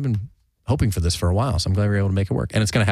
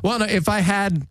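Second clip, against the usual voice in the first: laughing, higher and slow; 10 semitones higher than usual. Real, not acted. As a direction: laugh it out slowly. Laughing at a joke.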